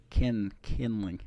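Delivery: Ken, Kenley stretched slow in a Southern twang; mock southern accent. Streamer putting on a hammed-up Southern accent for chat. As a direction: drag the name out like a Southern good ol' boy. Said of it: "Excuse my southern accent".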